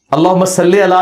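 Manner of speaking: "صلی" said as salle, with an e at the end; majhool reading. Shown as a demonstration. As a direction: recite "صلی" with "le" in place of "lee". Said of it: "آپ مجہول بھی پڑھ سکتے ہیں". ("صلی" کو مجہول "صلّے" پڑھیں)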